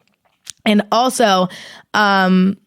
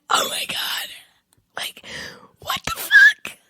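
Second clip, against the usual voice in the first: breathy mock sob, whispered; hammed-up crying whisper; whimpering whisper; 6 dB quieter, slower than usual. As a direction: whimper it like you're near tears. Retold reaction, whispered cry.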